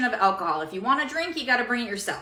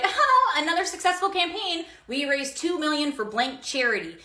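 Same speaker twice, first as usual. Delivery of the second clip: mock corporate voice; 3 semitones higher than usual. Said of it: "the corporations are like".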